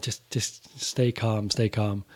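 slow, soft pleading to stay calm; silent pleading. Retold or imitated. Urging the nervous drummer across the hall, slow soft pleading. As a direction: mouth it slowly across the hall, begging. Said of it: "pleading with him".

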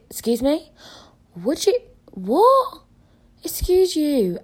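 high, loud indignant shock; outraged disbelief. Real, not acted. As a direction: react appalled. Outraged at guy's request.

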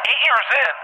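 very high incredulous echo; retold astonishment. Dreamer hearing how long it's been, retold astonishment. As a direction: throw it back high in mock disbelief.

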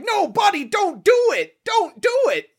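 hammed-up bystanders shouting; mock shout. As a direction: yell a warning across the street. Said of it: "they're like".

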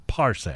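Parse said as one syllable, stress on the front, PARSE; stress on first syllable. Shown as a demonstration. Host showing the label's pronunciation, stressing the first syllable. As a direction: say Parse with the weight up front, slow. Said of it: "Emphasis on the first syllable".

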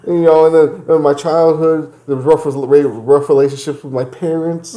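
high, whiny, self-pitying voice; whiny crying woman. Retold or imitated. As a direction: mimic a weepy excuse-maker. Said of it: "she starts going into her past and says".

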